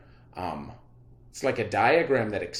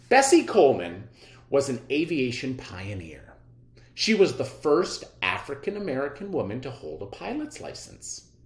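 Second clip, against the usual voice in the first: clear, measured read-aloud for students; reading aloud to class. Acted. Teacher reads the biography aloud.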